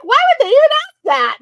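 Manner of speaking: high, loud, giggly quote; laughing, high-pitched disbelief; laughing retell. Retold or imitated. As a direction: squeal it through laughter. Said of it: "I'm like".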